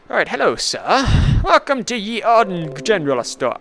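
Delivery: lightly voiced cheerful shopkeeper; shopkeeper greeting. Streamer greeting a player as the shopkeeper, lightly voiced.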